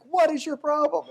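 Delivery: hammed-up frustrated owner; exasperated owner. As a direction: scold the dog in a squeaky huff. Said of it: "he's like".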